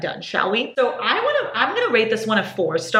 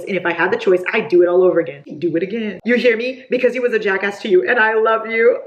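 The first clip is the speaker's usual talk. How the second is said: mildly heated, emphatic read-aloud; firm, louder on the key lines; angry love confession; 4 dB louder than usual. Acted. Reader voicing a boyfriend's angry love confession, mildly heated. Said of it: "I live for angry love confession".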